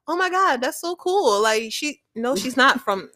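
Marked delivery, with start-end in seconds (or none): 0.1-1.4 retold amazement. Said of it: "He's like".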